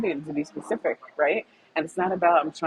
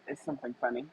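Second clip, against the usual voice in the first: pointed question; 8 semitones higher, 11 dB quieter, faster than usual. Retold or imitated. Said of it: "So I said".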